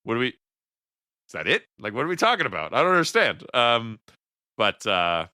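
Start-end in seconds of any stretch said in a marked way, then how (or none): 0.0-3.4 baffled. Retold or imitated. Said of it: "I'm just like".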